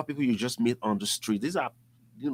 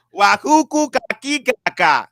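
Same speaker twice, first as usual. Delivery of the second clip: put-on high playful baby babble; baby talk; 9 semitones higher, 13 dB louder than usual. The speaker joking back at JT in baby-talk. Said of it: "we're just talking nonsense".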